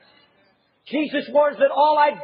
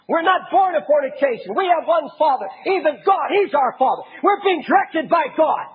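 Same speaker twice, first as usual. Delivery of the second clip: mock proud shout. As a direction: shout it like a self-righteous crowd. Preacher voicing Jews' boast.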